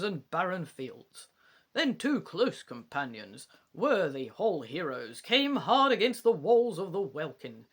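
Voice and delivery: lightly put-on English accent reciting verse; attempted English accent. Bard reciting lines fed by Faye, in a tentative English accent. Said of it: "I'll try putting on a wee English accent".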